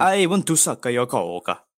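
hammed-up foreign vampire voice; Count Dracula. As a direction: play a campy vampire with a silly accent. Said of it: "Count Dracula".

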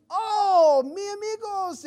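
high, loud, drawn-out "oh"; happy class-clown greeting. Retold or imitated. Class clown spots Hispanic guys in class, mock joyful cry. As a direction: greet them with hammed-up delight. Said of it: "he's all happy".

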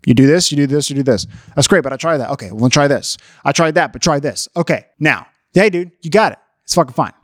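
low, matter-of-fact guy-to-guy advice; acted low-voiced practical dude; men advising men. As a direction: reel off fixes like a buddy. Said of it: "that's what men want when they're".

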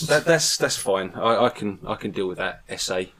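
put-on Mexican accent, settling down; Carlos, Mexican accent. Carlos forgiving his fellow hosts, Mexican accent. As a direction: shrug it off in a mock-Mexican accent. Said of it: "Sorry, Carlos".

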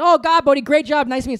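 mock gushing praise, high and loud; hammed-up producers raving about the reading; the producers gushing over his audition, mock excited. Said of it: "And they all said".

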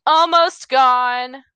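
tired, fading voice; voice giving out. Real, not acted. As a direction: talk like your voice is almost gone. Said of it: "'cause my voice is, like, almost gone".

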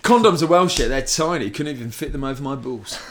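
smug boast. Retold or imitated. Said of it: "So smug".

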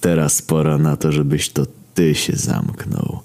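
calm, level, unhurried interruption; slow down gently towards the end; soothing voice. Acted. Saviour cutting off the villain, soothing calm. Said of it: "odezwał się nagle najbardziej kojący głos".

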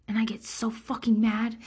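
hushed, breathy confession of anger; whispered venting. Real, not acted. Admitting to the listener how mad she gets, whispered. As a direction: whisper it like a secret you're ashamed of.

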